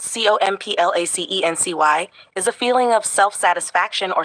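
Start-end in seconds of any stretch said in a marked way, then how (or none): 0.0-2.1 clear, separated letter names; spelled letter by letter. Shown as a demonstration. Answering the learner, spelling each letter separately. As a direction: say C O M P L A C E N C Y as separate letters, with a rise at the end.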